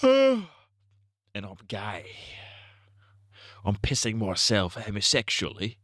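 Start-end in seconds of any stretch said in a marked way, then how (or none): 0.0-2.1 slow, drawn-out mock confession; mock dramatic. Gamer confessing to chat, slow and hammed-up. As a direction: sigh then drag it out like a tragic admission.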